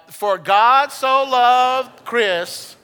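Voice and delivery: very slow, loud and heartfelt; loud, slow declaration of faith; with feeling. Shown as a demonstration. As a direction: pour belief into every word. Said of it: "let's say it with feeling".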